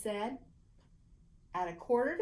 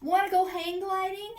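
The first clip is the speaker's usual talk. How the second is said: eager offer; 9 semitones higher, 6 dB louder than usual. A narrator's reading.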